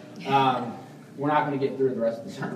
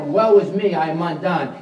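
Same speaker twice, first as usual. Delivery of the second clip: raised, higher cry of despair; 3 semitones higher, 6 dB louder than usual. Retold or imitated. Isaiah crying out before God's glory, loud and high. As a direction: cry it out like a man undone. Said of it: "And Isaiah cries out".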